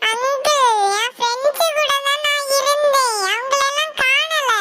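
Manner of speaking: put-on a lost kid answering the grown-up; little girl voice. Lost girl tells the uncle her friends are gone, childlike voice.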